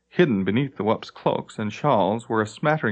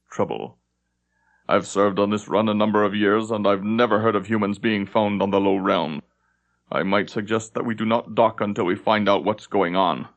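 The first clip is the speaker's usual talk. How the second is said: grave lieutenant; 2 semitones lower than usual. Acted. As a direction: state it darkly and evenly.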